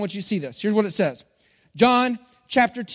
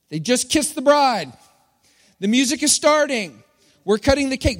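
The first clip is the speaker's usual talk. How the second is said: lightly voiced wedding announcer, slightly raised; a hint of a wedding DJ; 4 semitones higher than usual. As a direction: announce it to the whole reception. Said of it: "who just liked to announce things".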